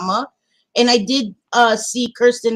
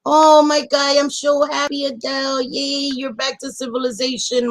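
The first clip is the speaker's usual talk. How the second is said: delighted squeal; 5 semitones higher than usual. Real, not acted. Overjoyed a friend is back.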